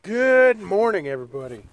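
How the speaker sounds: stuffy nasal sound; talking through a blocked nose. Real, not acted. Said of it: "why do I sound all nasally?".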